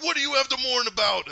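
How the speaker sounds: high, loud mock yell; indignant demand. Heroes demanding answers from Thanos, hammed-up indignant shout. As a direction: shout it as an outraged challenge.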